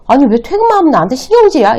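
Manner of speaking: acted-out annoyed retort; irritated husband. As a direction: snap back defensively at your wife. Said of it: "남편이 신경질을 냈어요".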